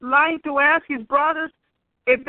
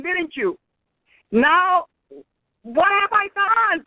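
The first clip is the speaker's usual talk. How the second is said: angry brother; 2 semitones higher than usual. Acted. Eliab scolding David for coming to the battle, mild mock anger. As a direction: scold him like a jealous older brother. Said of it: "was angry at him and said".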